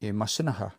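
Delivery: Imasinaha with the final K all but lost; barely heard ending. Shown as a demonstration. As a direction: let Imasinaha end on an open "ha". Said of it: "it just sounds like this".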